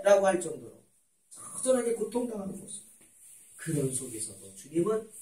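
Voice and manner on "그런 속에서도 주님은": usual speaking voice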